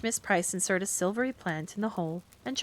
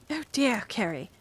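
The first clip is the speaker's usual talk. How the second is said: exasperated; 3 semitones higher than usual. Acted. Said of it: "cried Miss Price, suddenly exasperated".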